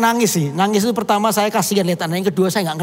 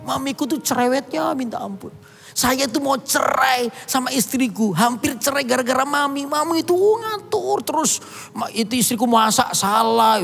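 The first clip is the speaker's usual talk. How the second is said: higher-pitched voice of a fed-up son; complaining son; 5 semitones higher than usual. Retold or imitated. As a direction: whine it out like a son torn between mother and wife. Son complains about his mother. (suara anak yang mengeluh, lebih tinggi)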